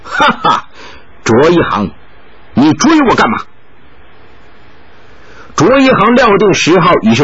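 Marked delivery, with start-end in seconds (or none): 0.0-3.4 laughing reply. Acted. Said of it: "回头笑道".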